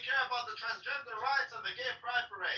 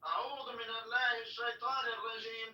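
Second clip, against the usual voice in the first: mimicking recitation; faster than usual. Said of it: "I was trying to mimic you".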